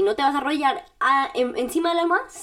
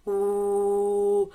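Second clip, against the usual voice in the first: gentle low "Oh", barely pushed; soft vocal warm-up; 3 semitones lower than usual. Shown as a demonstration. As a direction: ease out a relaxed low "Oh". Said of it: "vas a hacer". (un "Oh" suave y grave de calentamiento)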